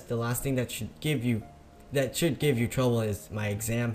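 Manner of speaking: usual speaking voice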